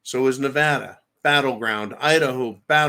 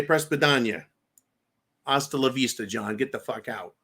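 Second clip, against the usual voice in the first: badly faked Russian accent; lightly attempted Russian accent, trailing softer; awful Russian accent; 3 semitones lower, 3 dB quieter than usual. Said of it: "forgive my awful Russian accent".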